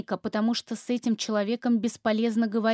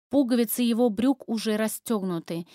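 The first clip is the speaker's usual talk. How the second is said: ordinary delivery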